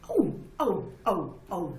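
old woman mock-cries out at the child's words; mock cries of pain. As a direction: yelp like a poke really hurt. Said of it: "schrie Frau Kühn".

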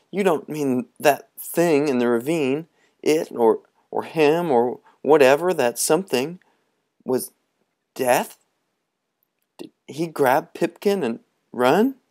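put-on young boys explaining quickly; eager boys. Boys ask about Death.

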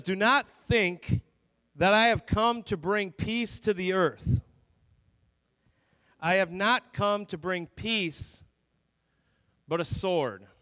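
slow, deliberate Bible reading with long pauses; scripture reading. A narrator's reading. Pastor reading Jesus' words to church, slow scripture reading. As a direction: read the verse out slowly and weightily.

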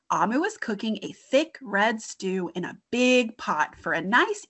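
put-on lively read-aloud for children; storytime reading. Teacher reading a picture book to young kids, animated. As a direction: read the story with bright expression.

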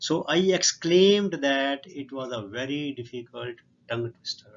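reading the English sentence out word by word, very slowly; slow dictation reading. Shown as a demonstration. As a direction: spell it out slowly for the class. (ਬਹੁਤ ਹੌਲੀ ਹੌਲੀ ਪੜ੍ਹਾਉਣ ਵਾਲਾ ਲਹਿਜਾ)

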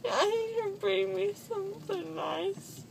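crying. Real, not acted. Groggy daughter crying after surgery.

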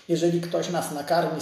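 ordinary talk

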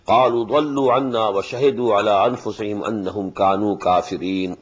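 melodic tajweed chant, fast and flowing; Quran recitation. Acted. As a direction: recite the verses as in prayer.

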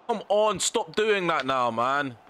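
high, slow exasperated plea; frustrated. Real, not acted. Gamer scolding his AI players, frustrated and slow. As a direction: plead with the players, fed up. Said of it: "I'm getting frustrated".

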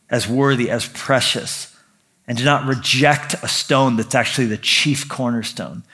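hushed, earnest prayer voice. Acted. Pastor praying over the church, hushed and earnest.

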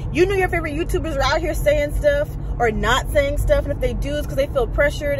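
retold frustrated rant. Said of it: "so frustrated".

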